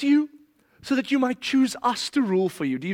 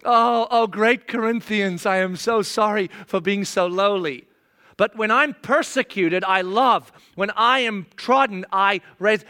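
lightly voiced mock humility; bow and scrape with irony; a hint of sarcastic lowliness; sarcastic groveling. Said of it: "this is what Paul's doing".

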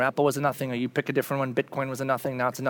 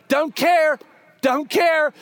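dismissive; 10 semitones higher, 4 dB louder, much slower than usual. Retold or imitated. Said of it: "And Paul's like".

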